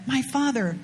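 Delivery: a hint of a humble servant, gently addressing; lightly voiced servant bowing to his master; respectful servant. Servants respectfully address their master Naaman, mildly humble.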